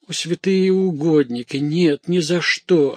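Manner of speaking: high-pitched horrified protest; alarmed refusal. A narrator's reading. Maid refusing to leave with her master, alarmed protest. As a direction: refuse in a fluster of fright.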